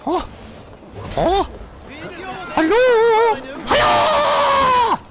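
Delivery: laut und hoch gerufen; hoch und laut rüberrufen; rufen. Real, not acted. Calls out in the game. (lauter Ruf)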